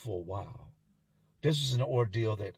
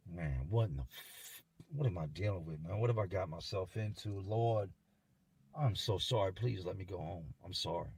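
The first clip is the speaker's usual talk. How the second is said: hushed pleading; 2 semitones lower, 6 dB quieter than usual. Retold or imitated. Inmates overhearing the attack, hushed pleading. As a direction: plead under your breath, as if to yourself. Acted inner plea of frightened listeners.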